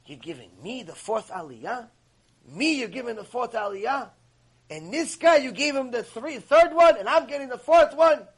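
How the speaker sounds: indignant tirade that swells into a shout; retold yelling. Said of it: "he starts cursing him and yelling at him".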